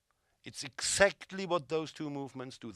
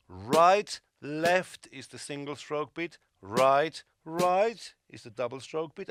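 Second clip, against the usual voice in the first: hands called out, accented strokes punched louder; counting strokes with accents; 5 dB louder, slower than usual. Shown as a demonstration. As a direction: call each stroke, hitting the accents. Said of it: "I'm going to magnify it for you".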